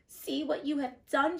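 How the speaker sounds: put-on melting witch screaming at the girl. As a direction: shriek at the girl. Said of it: "she screamed".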